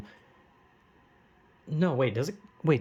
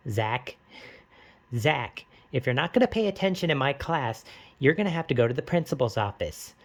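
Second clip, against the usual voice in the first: stern teacher voice. Retold or imitated. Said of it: "I'm gonna say the line in a stupid voice".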